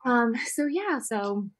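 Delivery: fighting tears while she talks; holding back tears. Real, not acted. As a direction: voice wavering with held-back tears. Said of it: "I can hear it in my voice".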